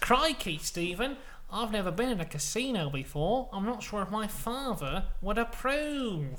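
lightly hammed-up hesitation; acted hesitant Scott. Acting anxious Scott outside casino.

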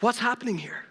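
put-on loud, slowing exasperated kids; mock scolding kids. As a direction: scold the parents like a fed-up teen. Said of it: "the kids are like".

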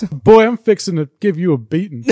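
slow Southern mock threat; drawn-out, hammed-up Southern accent; put-on Southern accent. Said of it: "one-up each other with their accent".

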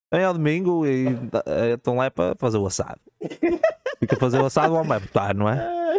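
teasing, tongue in cheek; joking, not meant seriously; mock sexist joke. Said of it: "Não, estou a brincar".

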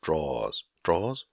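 put-on tentative Long Island accent, the second try questioning; imitated Long Island accent. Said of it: "she pronounces it perfectly".

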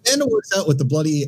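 playful Aussie banter; mock Australian accent. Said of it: "Do your best Australian accent".

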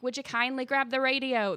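rough attempt at a polite Irish accent; lightly faked Irish lilt, asking nicely; Atlas. Kind Irishman asking the player for help, bad Irish accent. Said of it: "that's the worst Atlas impression ever".

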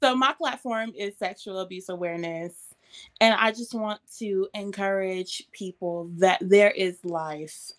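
poised pageant answer. Acted. Pageant contestant states her platform.

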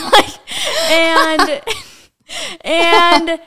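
real giggles breaking into the words; high, loud, trying to talk through laughter; laughing. Real, not acted. Cracking up over her bathroom example, laughing.

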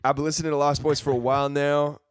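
loud, high Irish attempt gone country; accent slipping into country. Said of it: "I don't know why I got country".

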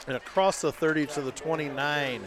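hiccuping between words; hiccups. Real, not acted. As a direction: call it through hiccups. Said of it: "I got the hiccups".

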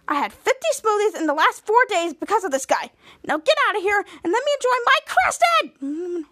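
rant, climbing to a possessive cry; mock angry rant. Chopper ordering rivals away from Creston, building mock outrage.

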